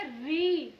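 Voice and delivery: "री" को साफ़ लंबी ई के साथ बोलें; री sound demo. Shown as a demonstration. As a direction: teach "री" as one firm long syllable. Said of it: "इसकी आवाज़ क्या?". ("री" का साफ़ उच्चारण)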